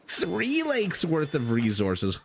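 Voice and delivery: high, drawn-out THREE sliding down; exaggerated climax. Real, not acted. Commentator topping off the tally of lakes, exaggerated climax. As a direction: stretch "three" up high, slow and incredulous.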